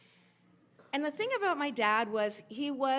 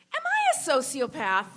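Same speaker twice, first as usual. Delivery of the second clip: loud retold self-doubt, pitched up; mock self-questioning outburst; 4 semitones higher, 10 dB louder than usual. Son confessing his doubts to mom, in a loud mock outburst. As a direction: ask it aloud as a big dramatic question.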